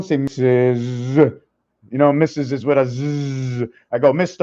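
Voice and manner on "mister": "Mister" said with a short rising lift. Shown as a demonstration. Teaching the cat how "Mister" rises upward. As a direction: let "Mister" go up at the end. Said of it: "It's like going down".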